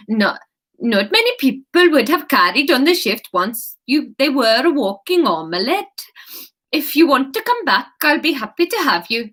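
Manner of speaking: lightly put-on Swedish accent; a gentle Swedish sing-song. Anya inviting Kate back, in a light Swedish accent.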